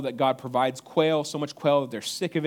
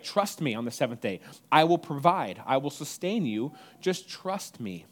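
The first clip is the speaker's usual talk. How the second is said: reassuring God. Acted. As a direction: gently promise to provide. God reassuring his people.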